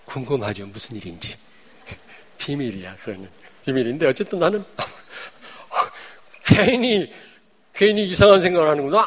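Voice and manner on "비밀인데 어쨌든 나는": ordinary delivery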